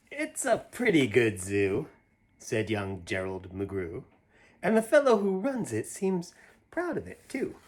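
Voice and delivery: lively, sing-song picture-book reading; reading to children. Acted. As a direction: read it out like a bedtime story for little ones. Reads picture book aloud.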